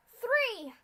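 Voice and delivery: high, loud final count; shouted count. Acted. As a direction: launch them all with one yell. Scootaloo's count to take off.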